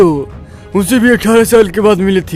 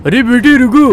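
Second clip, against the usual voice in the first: calling out; 3 semitones higher than usual. Acted. Uncle calls boy to stop.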